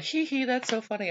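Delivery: very high imitation of tittering children; mocking giggly kids. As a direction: mimic teasing kids in a squeaky little voice.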